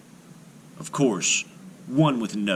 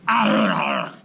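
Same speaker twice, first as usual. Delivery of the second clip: loud gruff groans of pain; pained giant groans; 4 dB louder than usual. Acted. Giant biting the iron bread, pained groan. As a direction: groan as teeth crack. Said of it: "he cried".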